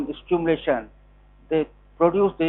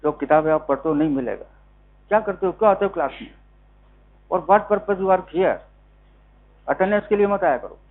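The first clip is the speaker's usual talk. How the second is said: scolding; much faster than usual. Real, not acted. Teacher scolding class in Hindi.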